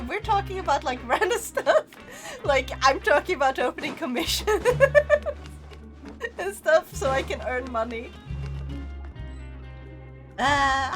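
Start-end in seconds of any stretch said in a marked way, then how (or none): 0.9-7.0 breathy cutesy giggly. Real, not acted. Giggling while talking.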